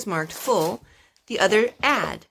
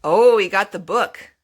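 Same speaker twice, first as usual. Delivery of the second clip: delighted oh; 9 dB louder than usual. Real, not acted. Baby brings the book.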